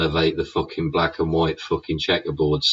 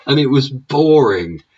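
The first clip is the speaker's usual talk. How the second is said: exaggerated boring; 8 semitones higher, 6 dB louder than usual. Real, not acted. Scoffing at the dealer's car, high and loud. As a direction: make boring sound as dull as the car.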